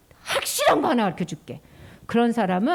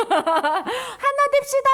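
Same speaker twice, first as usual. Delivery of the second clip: 높고 크게 외치기; 다 함께 외치듯; calling out; 13 semitones higher than usual. Shown as a demonstration. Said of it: "시작". (높고 크게 외침)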